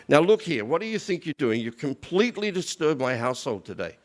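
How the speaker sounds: mock scolding without raising the volume; retold anger. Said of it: "But he gets angry".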